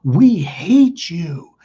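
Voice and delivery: a hint of a sister delivering a cruel family verdict; lightly voiced cold sister. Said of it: "She goes".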